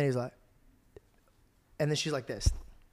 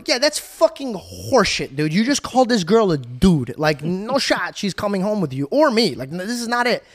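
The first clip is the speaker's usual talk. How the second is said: incredulous protest; 3 semitones higher than usual. Retold or imitated. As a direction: call out the nonsense, stretching the key words. Acting his outraged disbelief to friend.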